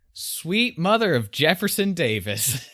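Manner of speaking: lightly hammed-up exclaim; mock exclamation. Podcaster quoting the chef's silly oath, mildly exclaimed. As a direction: toss it off like a folksy cook's oath. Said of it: "he exclaims".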